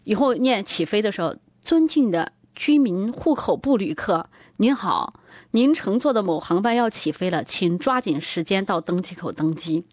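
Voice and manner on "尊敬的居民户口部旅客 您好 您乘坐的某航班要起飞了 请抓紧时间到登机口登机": boarding announcement. Pretend. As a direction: announce it like airport staff. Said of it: "得这么念".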